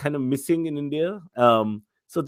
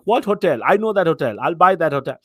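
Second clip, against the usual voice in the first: louder brash boast; mock big-shot uncle, louder; boastful Indian host; 2 semitones higher, 5 dB louder than usual. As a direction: brag like you own the town. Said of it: "that Indian thing".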